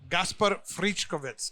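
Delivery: slow, careful try at Gaspar Friškovec; attempted Slovenian pronunciation. Host repeats guest's name after him, slow careful attempt at Gaspar Friškovec. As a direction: sound out Gaspar Friškovec slowly as a foreigner copying it. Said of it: "make an effort at pronouncing your last name".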